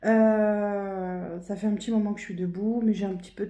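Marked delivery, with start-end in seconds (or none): 0.0-1.4 hoarse morning voice that keeps cracking. Real, not acted. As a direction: voice cracking, slow and a little louder. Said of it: "J'ai encore la voix qui déraille". (voix qui déraille)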